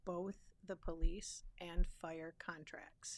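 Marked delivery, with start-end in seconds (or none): 1.6-3.2 slow, breathless, voiceless words; words fading into a whisper after a cough; voice gone after coughing. Real, not acted. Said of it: "I think I coughed away my words".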